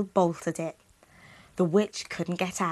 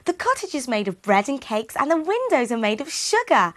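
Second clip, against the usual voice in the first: excited Gretel; 5 semitones higher, 3 dB louder than usual. Acted. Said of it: "cried Gretel".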